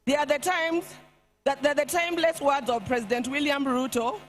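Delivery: solemn, measured eulogy reading; faltering tender eulogy. Acted. Reads eulogy at state funeral.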